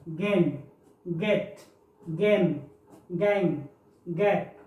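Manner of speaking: गेन गेट गेम गैंग गैप, each with a hard ग; hard G words. Shown as a demonstration. Teacher recaps hard G words for the class, clearly. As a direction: run through the hard g words one by one. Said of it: "ये ग के रूप में है".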